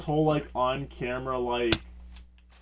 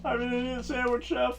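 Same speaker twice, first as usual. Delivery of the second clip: berated chef; 9 semitones higher than usual. Acted. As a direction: answer as the scolded cook, pitched up. Acting the berated chef's reply.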